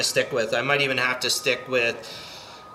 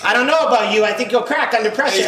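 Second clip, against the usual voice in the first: mock mobster line; 7 semitones higher, 5 dB louder than usual. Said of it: "Yeah, yeah".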